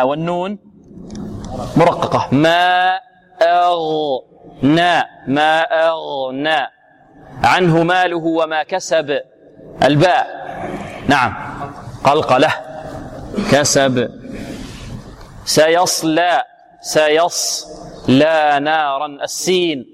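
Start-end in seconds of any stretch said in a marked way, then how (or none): 2.3-9.2 slow measured tajwid chant; slow Quran recitation. Shown as a demonstration. Teacher reciting the verse slowly for the student. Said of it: "teacher recites verse slowly". 15.4-19.1 سيصلى drawn out slowly in chant; slow recitation. Shown as a demonstration. Teacher modelling the verse for the student to repeat. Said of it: "teacher models recitation".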